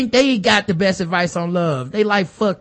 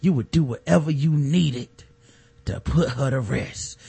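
lightly voiced quivering-lip plea; a hint of a shaking tearful mother; Letty Mae pleading with quivering lips, lightly mocked; mock trembling plea; slower than usual. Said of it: "Lip quiver, lip quiver".

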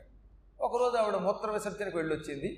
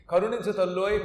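loud, begging cry for mercy; trembling plea; 4 dB louder than usual. Retold or imitated. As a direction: beg the mother for mercy. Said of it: "గజగజ వణికిపోతూ".

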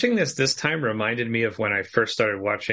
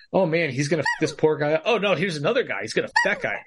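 mock dread; 5 semitones higher, faster than usual. Retold anxious viewer thoughts.

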